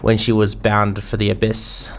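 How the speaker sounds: put-on light English pirate accent, storytelling; a lightly voiced English pirate innkeeper. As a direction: spin the tale like a salty old barkeep. Reading a seafaring innkeeper's lines.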